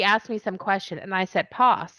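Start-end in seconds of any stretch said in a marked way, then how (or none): 1.5-1.9 "Pos" with a long British ah vowel; English-accented pass. Retold or imitated. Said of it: "sometimes English accent kills it".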